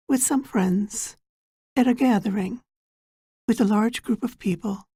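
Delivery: measured meditation guide, long pauses between phrases; guided meditation. Acted. Guide preparing listeners for an inner journey, guided meditation. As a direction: guide them gently inward, phrase by unhurried phrase.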